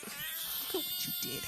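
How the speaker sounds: hammed-up accusing cry; mock shout. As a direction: accuse them dramatically. Blaming repeated line.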